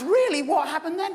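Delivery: high, breathless "really?"; eager listeners. Retold or imitated. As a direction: hang on every word. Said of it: "And they said".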